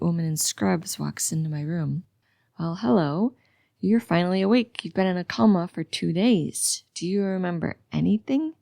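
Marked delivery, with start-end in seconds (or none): 2.6-8.5 lightly sing-song nurse; a touch of sing-song on the questions. A narrator's reading. Nurse to a patient waking from a coma, mildly sing-song. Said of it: "She asks in a sing-song voice".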